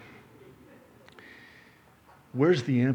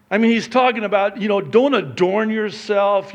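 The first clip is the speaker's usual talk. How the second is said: loud, higher-pitched sermon delivery; forceful preaching; 7 semitones higher, 9 dB louder than usual. Real, not acted. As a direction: drive the point home to the congregation.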